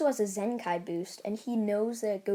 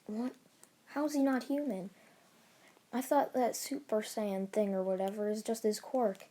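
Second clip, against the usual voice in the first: mildly shocked, pitched-up question; shocked classmates. Retold or imitated. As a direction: act out mild disbelief. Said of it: "they're all shocked".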